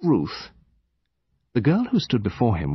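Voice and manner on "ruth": high-pitched lady's voice; higher-pitched character voice; lady introducing her daughter. A narrator's reading.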